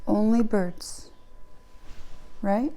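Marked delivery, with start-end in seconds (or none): 0.1-1.1 slow statement. Real, not acted. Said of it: "so only birds?".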